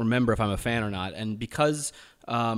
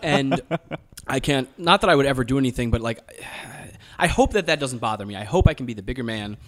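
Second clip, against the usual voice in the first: speaking in a put-on American accent; an Australian doing an American accent; 3 dB louder than usual. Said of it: "So you're pulling out of the American accent now?".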